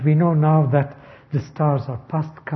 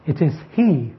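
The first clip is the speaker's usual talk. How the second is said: "he" picked out and weighted at the end; stress on HE. Shown as a demonstration. Teacher showing who will rebuild, stress on "he". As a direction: put the emphasis on "he". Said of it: "the emphasis there is on the he".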